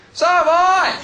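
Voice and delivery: high, loud gleeful yell from the back; triumphant shout. Retold or imitated. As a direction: call it out like a proud heckler. Woman heckler shouting from back.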